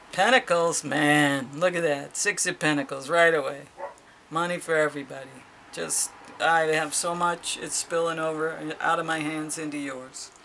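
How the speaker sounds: loud, delighted at the money card; excited. Real, not acted. Thrilled to see Pentacles for Bitcoin Cash, loud. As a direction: burst out with delight.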